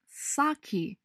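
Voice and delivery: サキ said slowly as English "sake", SAH-kee; drawn-out サキ the English way; English pronunciation. Shown as a demonstration. Teacher models English sake. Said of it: "お酒は".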